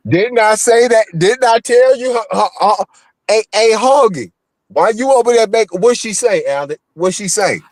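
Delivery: high, loud and eager, pitch way up; excited. Real, not acted. Host pressing his co-host about Liz's post, excited and high. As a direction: jump in all worked up, demanding to know.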